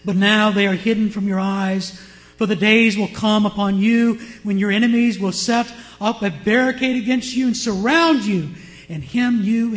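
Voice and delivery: loud, weighty proclamation of warning; preacher declaiming a prophecy; forceful scripture reading. Acted. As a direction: proclaim it loudly to a whole congregation. Reading Jesus's lament as judgment.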